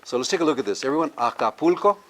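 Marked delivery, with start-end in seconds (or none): 1.1-2.0 Acapulco with stress on PUL, rising for repetition; stress second-last syllable. Shown as a demonstration. Teacher prompting the class to repeat, stress second-last syllable. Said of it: "so we stress the one before that".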